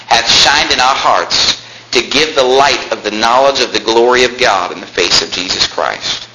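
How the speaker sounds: slow, measured verse reading; scripture reading. Acted. Preacher reading the verse to his congregation, measured and declamatory. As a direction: read it out slowly, phrase by phrase.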